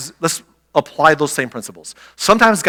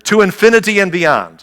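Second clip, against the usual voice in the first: Buzz Lightyear; 5 semitones higher, 6 dB louder than usual. Retold or imitated. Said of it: "He quoted Buzz Lightyear".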